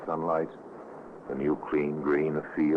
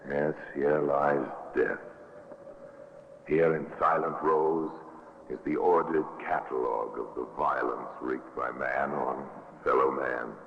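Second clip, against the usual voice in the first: radio host narration. Acted. Host guiding listeners through the murder museum, grave.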